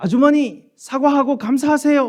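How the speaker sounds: shrill, very high, very loud shouted cry. Preacher retelling how a woman at a market heard someone shout behind her: imitating someone shouting. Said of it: "이렇게 막 소리를 지르는 것입니다".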